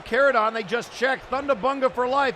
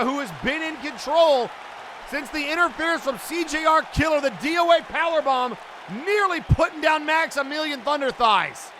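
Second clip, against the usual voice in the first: ordinary talk, nothing marked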